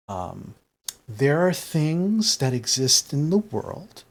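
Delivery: lightly voiced Gram, measured with long pauses; reassuring grandmother. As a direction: explain carefully and gently to a shaken guest. Game master plays reassuring Gram.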